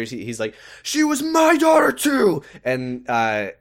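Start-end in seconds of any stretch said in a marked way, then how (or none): 0.8-2.4 high, slow, hammed-up yell; mock scream. Retelling Ben screaming at Adrian, hammed-up high yell. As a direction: overact the grief like a soap. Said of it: "he screams at her".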